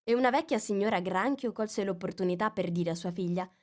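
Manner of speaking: ordinary delivery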